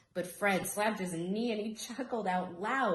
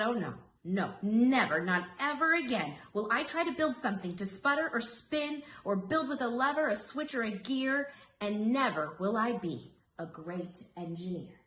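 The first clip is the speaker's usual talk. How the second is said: louder, higher, upset outburst with a punched never; despairing vow; 3 semitones higher, 3 dB louder than usual. Acted. Embarrassed Rosie swears never to build again, upset loud vow. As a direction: swear it off in dismay.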